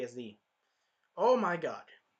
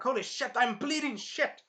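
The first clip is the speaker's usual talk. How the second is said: high, hammed-up panic; mock alarm; 9 semitones higher than usual. Hero discovering he's bleeding, mock panic. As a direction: cry out higher, stretching it in pain.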